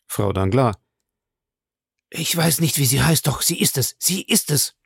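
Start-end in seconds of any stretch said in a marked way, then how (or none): 2.1-4.8 high, shaken certainty; agitated insistence. A narrator's reading. Bertuccio tells the Count he recognizes her, agitated. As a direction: insist in rising alarm.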